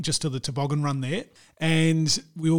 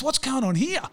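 imitating; 8 semitones higher than usual. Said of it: "he goes".

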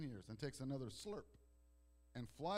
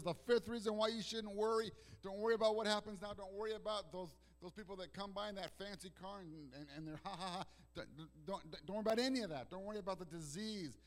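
voicing Jesus; 8 semitones higher, 5 dB louder than usual. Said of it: "And Jesus says".

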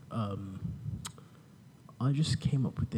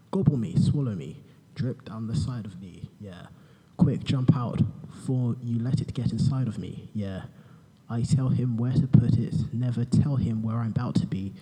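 boring voice parody. Pretend. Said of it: "in my boring voice".

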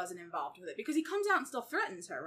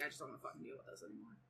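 mock fed-up mutter; 8 semitones lower, 13 dB quieter, faster than usual. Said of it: "He's like".

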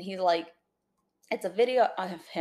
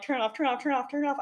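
retold panic; 6 semitones higher, faster than usual. I'm so disturbed.

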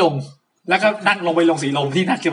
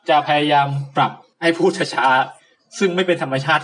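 slow, careful podcast delivery, against his habit; slowed-down speech, forced against his fast natural pace; deliberately slow; slower than usual. Real, not acted. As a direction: make yourself slow down on purpose.

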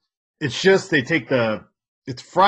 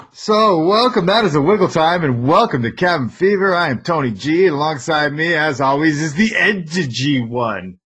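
loud, higher show-opener voice; podcast host intro; 3 semitones higher, 4 dB louder than usual. Acted. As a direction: open the show like an announcer.

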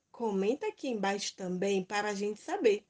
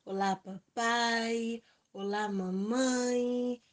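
high, drawn-out sing-song hello; bright squeaky sing-song welcome; 3 semitones higher, much slower than usual. Acted. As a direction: greet the kids brightly and slowly. Children's video opening greeting.

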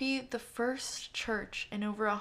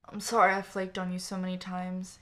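groaning; 2 semitones lower, 4 dB louder than usual. Acted. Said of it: "he groaned".

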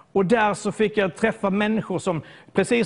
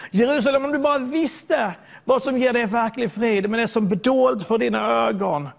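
crying out; 3 semitones higher than usual. Retold or imitated. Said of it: "han börjar ropa".

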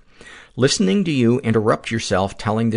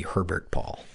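put-on French accent; 7 dB quieter than usual. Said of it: "you always say it with a French accent".

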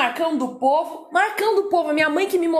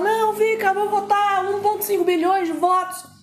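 higher, eager voting plea; mock eager voter; 5 semitones higher than usual. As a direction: sound like a keen fan voting. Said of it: "E a gente fala".

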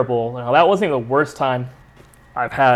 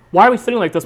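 higher-pitched imitation of an upset mother-in-law; mock complaint; 7 semitones higher, 4 dB louder, faster than usual. Mother-in-law questions the seats, mock complaint.

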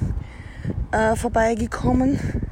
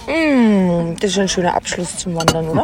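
talking with a mouth full; chewing through the words; 5 dB louder than usual. Real, not acted. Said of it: "mit vollem Mund soll man nicht podcasten".

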